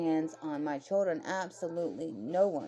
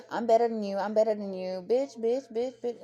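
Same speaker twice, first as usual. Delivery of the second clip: higher-pitched mocking imitation; mock big-bad boasting; 4 semitones higher than usual. Imitating her lording it over other inmates, mock tough taunting. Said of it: "she'd be acting like big bad".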